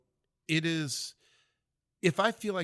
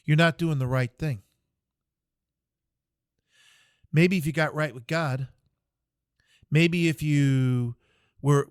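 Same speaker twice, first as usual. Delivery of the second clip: a louder, preachy telling-off, lightly voiced; the chaplain scolds the private in the hole, a loud sermon-like rebuke; scolding chaplain; 6 dB louder than usual. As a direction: lecture him like a stern chaplain over the edge. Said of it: "And he goes".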